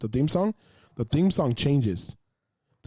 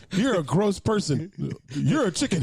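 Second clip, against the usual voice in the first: mock insulting neighbor; 4 semitones higher than usual. Neighbor insulting Al on the show, mock scorn. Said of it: "She's like".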